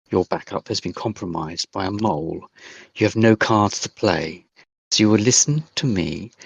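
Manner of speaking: lightly voiced German intercom woman laying down terms; a hint of a stern German accent, giving orders; the voice on the speaker threatens them in a light German accent. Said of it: "there's a distinct Germanic twang to it".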